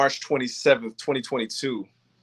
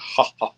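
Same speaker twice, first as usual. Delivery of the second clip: imitating fake laugh. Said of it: "he laughed with that fake Will Smith".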